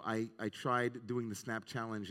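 "tried" stressed, the rest plain. Shown as a demonstration. Rabbi stressing to the congregation how hard it was, weight on "tried". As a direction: lean on "tried", give it weight. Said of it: "emphasis on, emphasized the word try".

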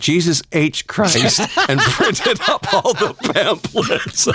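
high, stretched words breaking into laughter; laughing while reading. Real, not acted. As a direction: crack up on the punchline. Reader cracks up at the punchline.

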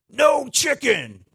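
high, loud, drawn-out yell of no chicken; yelling at the dog. Shown as a demonstration. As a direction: shout at a dog chasing chickens. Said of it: "I'm gonna do this loud".

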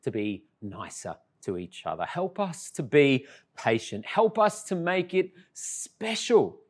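soft, earnest prayer at a bedside; hushed sincere prayer; quiet prayer. Retold or imitated. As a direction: pray gently beside the child. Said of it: "I say".

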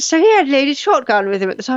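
a hint of English deadpan, brisk; deadpan understatement. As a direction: toss off the tragedy matter-of-factly. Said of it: "that, that way he just said it".

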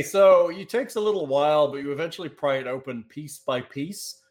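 slow scene setting with drawn-out pauses; measured storyteller's delivery; game master narration. Acted. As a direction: reveal the cavern slowly, piece by piece.

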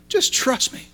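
soft whispered "Just trust me", barely voiced. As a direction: breathe "Just trust me" like a secret. God speaking gently to Peter.

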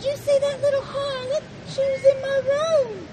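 loud, upset complaint; outraged lady telling the crew; indignant. Acted. Heiress complains to crewmen.

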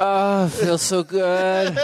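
slow, high mock moan; mock sensual. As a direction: ham up pleasure, drawn out. Mock sensual vapor cloud.

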